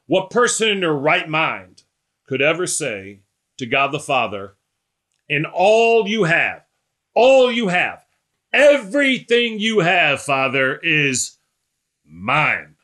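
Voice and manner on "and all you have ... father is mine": high and loud, stretched out, then dropping on the last word; incredulous building declaration. Acted. Preacher voicing an unthinkable claim to God the Father, incredulous and building.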